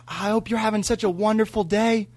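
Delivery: high, sustained well-wishing grandma voice; imitating grandmother's tone. Grandson quoting grandma's chat with somebody, imitated high sweet tone. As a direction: pitch it up like a gushing grandma. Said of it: "it was the same exact tone of".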